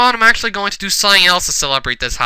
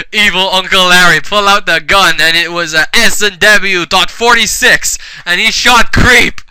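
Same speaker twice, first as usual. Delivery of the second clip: loud, emphatic mock-dramatic reading; over-earnest storyteller; hammed-up story narration; 4 semitones higher, 5 dB louder than usual. A narrator's reading. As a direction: narrate a terrible fanfic with full conviction. Reads fanfic story aloud.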